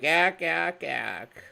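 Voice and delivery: low mock ack ack laugh; clipped imitation of the laugh; lightly voiced ack ack ack laugh. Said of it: "my laugh goes like".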